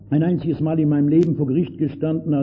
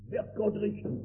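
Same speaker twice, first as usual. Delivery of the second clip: viel leiser, fast verstummend; verstummt; 5 semitones higher, 9 dB quieter than usual. Retold or imitated. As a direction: die Frage bleibt im Hals stecken. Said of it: "Da werden die Mäuler verstummen". (leise, verstummende Frage)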